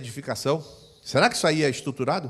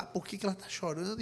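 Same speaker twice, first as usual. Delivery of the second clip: ordinary delivery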